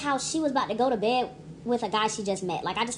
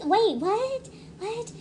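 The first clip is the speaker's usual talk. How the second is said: shocked what; 10 semitones higher, much slower than usual. Real, not acted. Reacting in disbelief.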